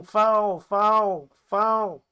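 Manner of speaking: loud, high repeated shout; crowd shouting. Acted. Everyone shouting at the knockdown, loud shouting. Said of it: "they're all shouting".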